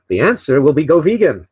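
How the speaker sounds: hint of a New England accent; amateur presidential impression with New England vowels; JFK. Host finishing his imagined presidential speech, lightly imitated New England accent. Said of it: "that was my best, uh, New England accent".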